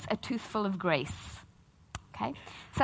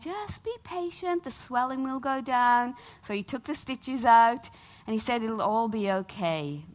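soothing dentist; 3 semitones higher than usual. Retold or imitated. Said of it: "And he went".

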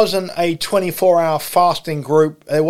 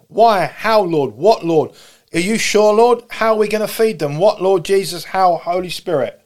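anxious disciples; 3 semitones higher than usual. Acted. Voicing disciples' anxious questions.

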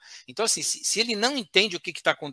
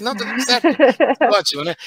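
mock hothead; 6 semitones higher, 9 dB louder than usual. Mocking another short-fused person.

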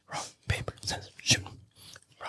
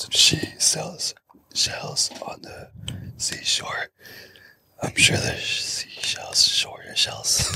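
raspy smoker voice; hoarse, burnt-throat rasp; much slower than usual. Real, not acted. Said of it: "Why are you talking like a smoker?".

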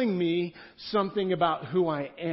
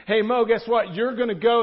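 God calling out; 5 semitones higher, 8 dB louder than usual. Acted. God calls Moses to go.

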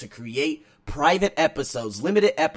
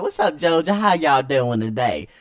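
little Southern accent; 6 dB louder than usual. Shown as a demonstration. Greeting Georgia fans in a light Southern accent. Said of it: "I got that little accent".

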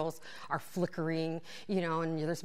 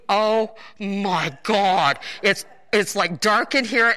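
stifled laughter; 10 dB louder, slower than usual. Real, not acted. Suppressing laughter.

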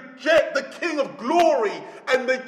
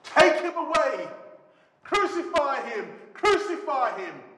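shouting crowd; 4 semitones higher than usual. Acted. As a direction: call out like a mob demanding. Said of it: "But they shouted".

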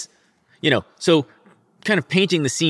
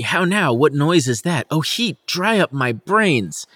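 a touch of stunned shock, slow on the last line; mild shock; 3 semitones higher than usual. Acted. Laertes seeing his mad sister, mildly shocked. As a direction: read it like he just saw his sister. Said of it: "He's in shock".

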